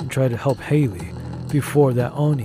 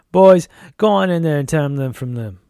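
louder, commanding sheriff voice; sheriff giving orders; 2 semitones higher, 6 dB louder than usual. A narrator's reading. Crooked sheriff orders his men to attack, loudly commanding. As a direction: send your men in with a raised voice.

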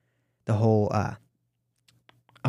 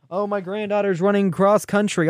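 higher-pitched mock excuse; Mike DeWine; 6 semitones higher than usual. Host mocking governor's excuse for skipping event, light impression. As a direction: lightly imitate a politician's lame excuse. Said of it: "the DeWine impression".

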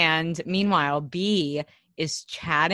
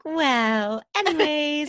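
breezy dismissal; 8 semitones higher, slower than usual. Retold or imitated. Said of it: "B's like".

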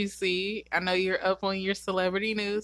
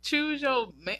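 gushing; 10 semitones higher, 5 dB louder than usual. Real, not acted. Gushing over celebrity.

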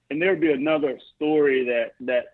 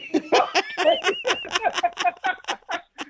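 long high laugh. Real, not acted. Retelling crying to mom, laughing.

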